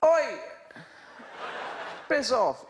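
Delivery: sudden high yelled oi, piss off; shouted bird cry, high and loud; kookaburra warning cry. Retold or imitated. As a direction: bellow it like an angry bird shouting at intruders. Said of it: "which goes something like".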